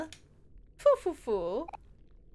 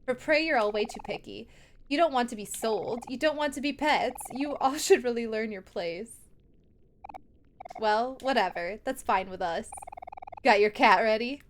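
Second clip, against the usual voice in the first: villain sister. Acted. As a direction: scold the defiant prey. Reads villain sisters again.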